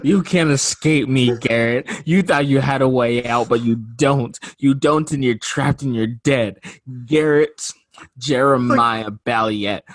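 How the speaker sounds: creeping nightmare whisper. Acted. Taunting host as quizmaster.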